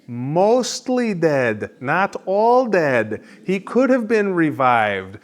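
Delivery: lightly voiced comic character, high and drawn out; a hint of a hammed-up miracle worker; Miracle Max echo. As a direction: stretch the key words in slow, swooping arcs. Slips back into Miracle Max's line.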